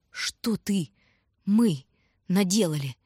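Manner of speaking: usual speaking voice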